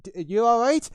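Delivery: loud, high questioning shout; calling out. Acted. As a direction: call over to someone in trouble. Guard calls out to the player.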